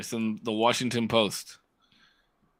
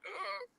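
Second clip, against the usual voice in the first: confused groan; 14 dB quieter than usual. Retold or imitated. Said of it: "I was like".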